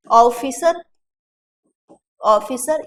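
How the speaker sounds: ऑफिसर as 'AU-fee-sar'; wrong au vowel. Shown as a demonstration. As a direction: begin ऑफिसर with a broad au. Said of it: "ये भी नहीं होता".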